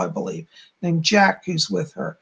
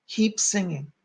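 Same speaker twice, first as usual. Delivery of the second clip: softer, sincere encouragement; 6 dB quieter than usual. Real, not acted. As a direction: encourage them sincerely, softly. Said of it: "I say that truly, sincerely".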